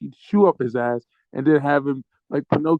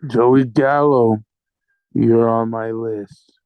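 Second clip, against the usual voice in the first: mock menace; 3 semitones lower, slower than usual. Staged rant threatening a player.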